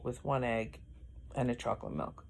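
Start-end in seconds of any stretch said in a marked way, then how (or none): 1.3-2.2 words stretched by a yawn. Real, not acted. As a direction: say it while starting to yawn. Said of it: "I am yawning so much".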